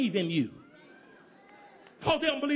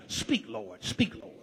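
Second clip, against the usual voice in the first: prayerful plea; 12 semitones lower, 3 dB quieter, slower than usual. Real, not acted. Pleading prayer to God.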